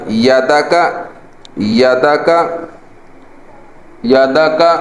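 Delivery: یا دا کا joined smoothly, each syllable clear; joined reading. Shown as a demonstration. Teacher blends the letters for students, smoothly. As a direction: blend یا دا کا into one flow. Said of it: "یہ بن جائے گا".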